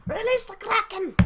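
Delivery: high, loud theatrical shout; booming movie command. Acted. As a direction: bellow it like a monster-summoning order.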